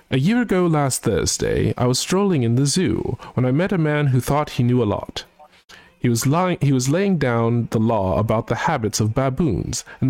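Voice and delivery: hoity-toity British gent voice, sung-spoken; mock posh British, half singing a comic song; British accent. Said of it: "try and also do his, uh, accent".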